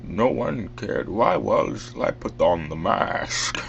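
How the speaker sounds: slow, drawn-out masked villain voice; Bane. Shown as a demonstration. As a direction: demonstrate a villain impersonation, slowly. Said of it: "just try talking, uh, like this".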